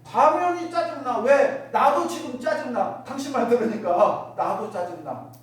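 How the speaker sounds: mildly irritated spouse snapping back; mock irritation. Spouse answering a grumpy husband, mock irritation. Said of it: "남편이 짜증낸 거에 대해서".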